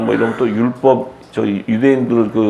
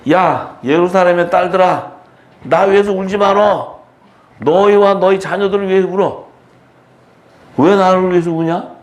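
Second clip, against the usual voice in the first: Jesus; 6 semitones higher than usual. Acted. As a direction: rebuke the weeping women in a raised pitch. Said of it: "예수님이 막 야단치잖아요". (높은 목소리로 야단치듯)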